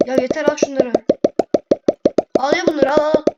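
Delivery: real impatient insistence; exasperated push. Real, not acted. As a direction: force the stuff on them. Pushing items onto animal.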